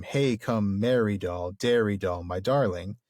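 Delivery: falling meter, stressing HEY, MERRY, DAIRY, DARLING on their first syllables. Shown as a demonstration. Host demonstrating Tom's falling meter, first syllables stressed in "merry doll, dairy doll". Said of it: "the stress on the first".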